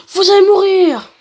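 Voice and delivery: high, loud battle cry; acted death threat. Fighter threatens his enemies in game text, acted death threat. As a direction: shout the threat with drawn-out force.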